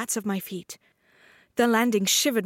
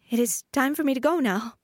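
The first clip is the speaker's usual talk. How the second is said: uncertain; 5 semitones higher than usual. Acted. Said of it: "I said uncertainly".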